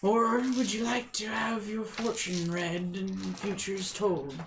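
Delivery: a hint of a hushed, raspy creature. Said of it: "a raspy voice".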